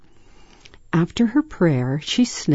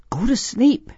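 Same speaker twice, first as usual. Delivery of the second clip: higher-pitched self-coaxing; raised, anxious-child self-talk; urging herself; 8 semitones higher than usual. Acted. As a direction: coax yourself to sleep in a higher voice. Girl urging herself during storm.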